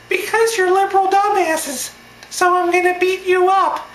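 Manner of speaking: very high, loud squeaky falsetto; petulant puppet-voiced mock threat; Elmo voice. Heckler giving his reason to protesters, in puppet falsetto. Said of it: "His voice sounded just like this".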